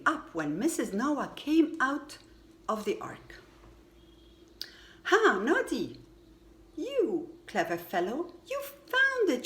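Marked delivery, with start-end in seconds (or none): 5.0-9.4 bright excited praise, leaping high on found it; delighted exclaim. A narrator's reading. Missus Noah gleefully praising Noddy for finding tail. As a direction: cheer him on for finding it. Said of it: "she said".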